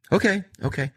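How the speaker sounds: high, placating okays; mock Brandon reply. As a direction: pitch it up and give in. Brandon answers boss, voiced.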